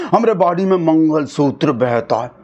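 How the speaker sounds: savouring the grand claim; lightly voiced proud politician; mock Modi line. Shown as a demonstration. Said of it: "ऐसे ही आप मंगलसूत्र बोल के देखो".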